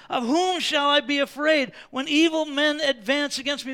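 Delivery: loud, rising pulpit preaching. Acted. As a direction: drive the truth home to the congregation. Preaching at full force.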